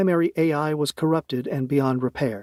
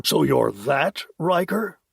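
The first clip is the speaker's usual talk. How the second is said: slow then rising surprise; dawning recognition; surprised realization; slower than usual. Acted. Major realizes.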